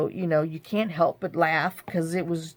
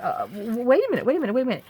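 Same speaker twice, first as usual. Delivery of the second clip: urgent call; 5 semitones higher, much faster than usual. Retold or imitated. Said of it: "I'm like".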